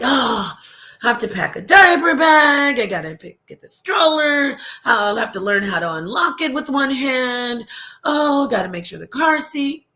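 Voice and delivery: imitating an overwhelmed parent's complaint; mock exasperation. Parent retelling old diaper bag chores, mock-exasperated. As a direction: grumble through a list of chores in mock dismay, pitch jumping up. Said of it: "back then I was like".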